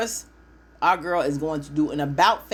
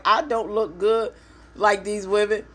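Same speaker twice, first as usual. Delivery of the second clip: mock insecure whine; 5 semitones higher than usual. Voicing insecure woman's reply.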